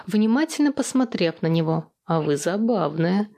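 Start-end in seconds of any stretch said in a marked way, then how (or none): 2.1-3.3 low, understated admiration; admiring murmur. A narrator's reading. Suitor to the heroine he admires, low admiring murmur. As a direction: murmur it low, mildly charmed. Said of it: "пробормотал ухажёр с восхищением".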